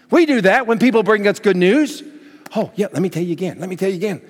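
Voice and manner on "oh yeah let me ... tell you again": fast, laughing eager repeat; thrilled, laughing. Retold or imitated. Someone bringing good news, fast and laughing. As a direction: rush it out with a laugh. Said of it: "we're thrilled".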